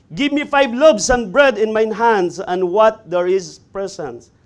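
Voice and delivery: slow, loud, drawn-out begging; loud plea. Acted. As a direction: press the hungry request hard. David repeats his plea for bread.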